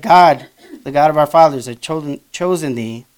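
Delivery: stumbling over the words; tripping on his own tongue; tongue-tied. Real, not acted. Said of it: "I'm chewing on my own tongue here".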